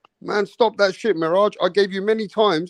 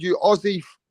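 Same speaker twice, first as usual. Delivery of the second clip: higher teasing insult; mock yell; 4 semitones higher than usual. Host inventing an insult for laughs, mock yell. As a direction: ham up a made-up curse. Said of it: "He said".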